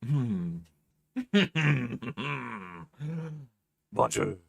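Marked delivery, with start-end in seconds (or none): 3.9-4.4 lightly put-on French accent; mock French. Streamer greets in mock French. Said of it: "I am French Floppy".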